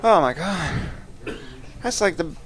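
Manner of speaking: high shrieking laughter, begging stop; helpless squeals while tickled; being tickled. Real, not acted. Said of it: "I'm so ticklish".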